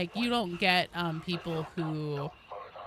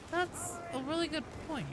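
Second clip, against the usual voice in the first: retold concession; 9 semitones higher, 4 dB quieter than usual. Acts out own past concession.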